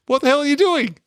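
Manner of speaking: high, loud mock yell of alarm; hammed-up panicked bodyguard; mock startled shout. Retelling a movie scene to his co-host, a high mock yell.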